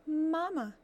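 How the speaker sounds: put-on high, tiny peeping baby goose; tiny gosling voice. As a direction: call like a chick still inside its shell. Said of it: "peeped a tiny, muffled voice".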